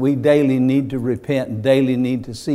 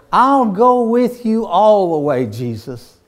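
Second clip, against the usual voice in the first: boastful vow; 7 semitones higher, 5 dB louder than usual. Acted. Peter's boast voiced.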